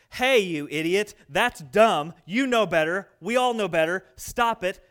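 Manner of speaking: loud, blunt friend calling you out; blunt scolding. Retold or imitated. Friend scolding someone who strayed, loud and blunt. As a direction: scold them loud and straight. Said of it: "the tone that would work on you".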